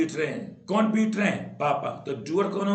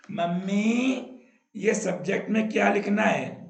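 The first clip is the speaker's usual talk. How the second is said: lightly acted schoolchild, higher pitch; a hint of a kid's higher voice; child asking mummy; 5 semitones higher than usual. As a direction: call out to mummy with a puzzled question. Acts a child asking mother.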